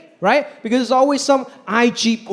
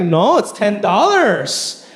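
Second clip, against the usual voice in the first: flat vendor; much slower than usual. Retold or imitated. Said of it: "He's like".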